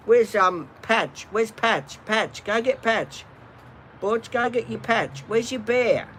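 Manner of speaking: high, coaxing voice for the dog; eager dog talk. Real, not acted. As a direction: urge the dog to fetch. Asking dog for toy.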